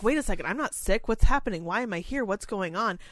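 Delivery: a mild mock of a resident demanding answers; lucid resident confused. Resident suddenly lucid asks caregiver why she is here, mildly voiced. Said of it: "And they're clear, like".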